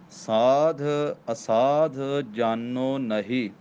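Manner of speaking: ਸਾਧ and ਅਸਾਧ with a firm, pressed ਧ; ਸਾਧ ਅਸਾਧ crisply articulated; said tightly. Shown as a demonstration. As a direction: lean on the ਧ of ਸਾਧ, tight and full. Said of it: "ਇਹ ਸਾਧ ਵੀ ਕੱਸ ਕੇ ਬੋਲਣਾ".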